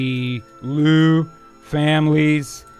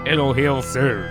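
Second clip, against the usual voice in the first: soothing mother; 5 semitones lower than usual. Acted. Voices the mother in script.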